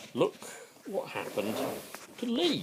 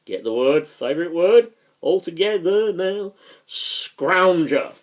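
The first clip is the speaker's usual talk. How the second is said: rallying call; 8 semitones higher, 9 dB louder than usual. Pretend. Leads audience in the favourite word.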